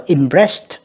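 "impressed" ending in a t sound; final T sound. Shown as a demonstration. Teacher showing students the -ed ending, "impressed" with final /t/. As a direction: say "impressed" slowly, its -ed as /t/. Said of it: "âm tờ nha các bạn".

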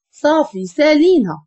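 ordinary delivery

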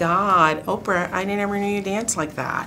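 high whiny weaselly voice; Jay impression. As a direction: whine it like a weaselly guy. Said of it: "do a quick impression of Jay".

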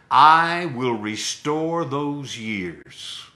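slow, solemn promise; each word laid down slowly like a vow; voice of the Lord. Retold or imitated. Preacher voicing God's promise to the woman, slow and solemn. The Lord's words, slowed.

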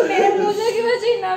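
complaining through real tears and laughter; half sob, half laugh as she protests; crying. Real, not acted. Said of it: "रोने लगी यार".

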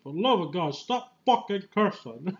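playful imitation of an exasperated, pleading old professor; Patrick Stewart cursing. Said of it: "I love how Patrick Stewart curses".

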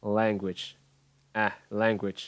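language with a flat "ae" in the first syllable; correct E-like vowel. Shown as a demonstration. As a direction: open language on "laeng", as in cat. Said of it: "E, e". (language, âm đầu đọc bẹt thành "e")

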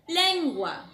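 "tiempo" agudo y fuerte, bien separado; dictado marcado. Shown as a demonstration. ("tiempo" dictado con fuerza)

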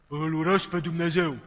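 lightly voiced thick possessed growl, slow; a hint of a demon speaking through the girl; thick demonic voice. Possessed girl cursing God, mild thick demon voice. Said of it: "ci cu o voce groasă".

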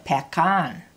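"pekan" with weight on the final "kan"; short "pe", stronger "kan"; stress on KAN. Shown as a demonstration. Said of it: "you're gonna say kan louder".

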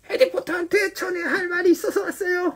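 very high, soft elf squeak; whisper-squeak the secret message. Acted. Dobby telling Harry he has a message, very high soft elf voice.

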